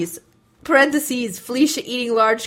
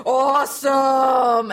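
excited; much slower than usual. Retold or imitated. Reading a comment with music notes.

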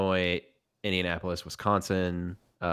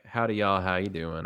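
light Southern twang. Shown as a demonstration. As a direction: slip a little Southern twang into the greeting. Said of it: "a little bit of twang".

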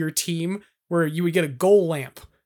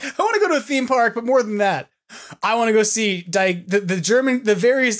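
teasing imitation; 4 semitones higher than usual. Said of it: "You're like".

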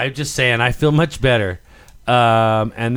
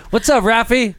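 put-on higher Mexican accent; 7 semitones higher, 4 dB louder than usual. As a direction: greet him in a Mexican accent. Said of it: "I have to work my way into it".

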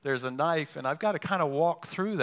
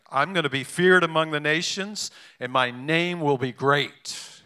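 indignant proclamation, half-acted; ticked-off God; 6 dB louder than usual. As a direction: let God sound offended and insistent. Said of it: "he's ticked".

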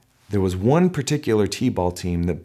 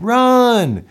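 a coach's urgent shout; 14 semitones higher, 8 dB louder than usual. Retold or imitated. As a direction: coach yelling run, much higher and louder. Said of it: "Then her coach said".

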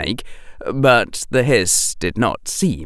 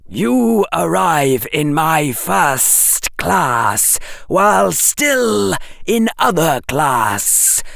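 slow, higher voice of a secretive snake; hissing snake; 6 semitones higher than usual. A narrator's reading. Snake hissing a secret code to Harry, slow and higher. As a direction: lay it out slowly like a serpent.

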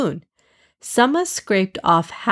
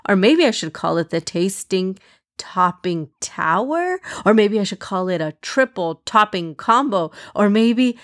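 bright, upbeat announcing; cheerful showman presenting. Acted. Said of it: "cheerfully said".

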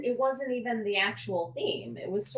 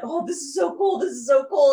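high-pitched gushing; imitated fanboy excitement; 6 semitones higher, 6 dB louder, faster than usual. Imitating Barry picked up by Batman, giddy and high. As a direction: gush like a thrilled fanboy. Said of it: "he's just like".

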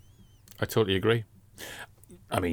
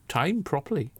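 breathy hushed whisper; 6 semitones higher, 4 dB quieter than usual. Real, not acted. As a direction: drop to an awed whisper. Whispered aside about Mumra.

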